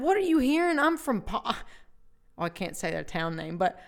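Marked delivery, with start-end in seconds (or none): 0.0-1.4 high, loud protest; protest, pitched way up; indignant retort. Retold or imitated. Retold indignant reply.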